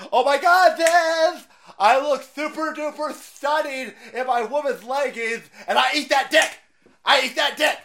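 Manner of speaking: high, loud, shrieking parody of a lefty; mocking lefty. Streamer mocks protesters, high and loud. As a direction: camp it up, shrill and over the top. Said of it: "the other side sitting there going".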